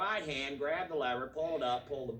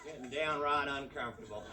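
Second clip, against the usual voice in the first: country husband talking to Myrtle; drawling Texan van driver; 4 semitones higher than usual. Pretend. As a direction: play the cramped driver griping to his wife. Voices a yokel van driver.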